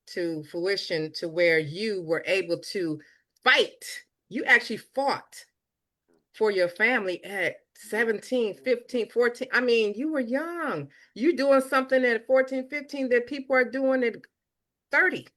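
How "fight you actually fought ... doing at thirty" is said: rising excitement. Real, not acted. Admiring praise building up.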